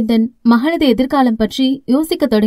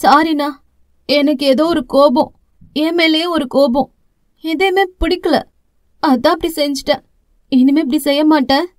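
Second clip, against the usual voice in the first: lightly voiced young sister; 3 semitones higher than usual. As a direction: confess it like a sorry little sister. Sister apologizes.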